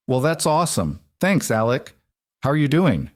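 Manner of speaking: friendly chatty neighbour greeting Alec; cheery Waylon. Acted. Waylon voiced by narrator.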